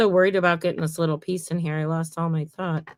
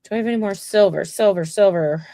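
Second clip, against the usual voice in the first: quick auctioneer rattle; auctioneer patter; 4 dB louder than usual. Pretend. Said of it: "It's all like an auctioneer".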